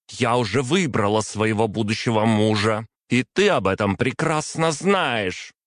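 выше, с напором; возмущённо возразить. A narrator's reading. Принцесса возражает отцу. (дочь возмущённо возражает отцу, голос выше)

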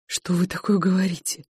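ordinary delivery, nothing marked

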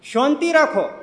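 a hint of a confident old uncle; old villager calming. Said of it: "ચરોતરી કાકા બેઠા".

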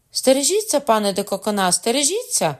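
high, urgent alarm call; warning cry. A narrator's reading. Lady warning Cocona of danger, crying out. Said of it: "крикнула дама з будинку Гіза".

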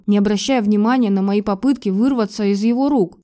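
usual speaking voice

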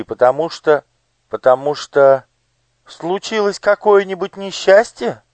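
high, bright-voiced curious lady; noble lady. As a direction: voice the gracious lady on horseback. (знатная дама, высоким голосом)

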